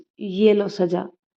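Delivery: plain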